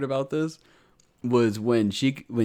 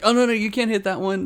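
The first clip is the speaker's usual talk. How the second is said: put-on high kid voice; 11 semitones higher, 4 dB louder than usual. Retelling kids' protest in anime.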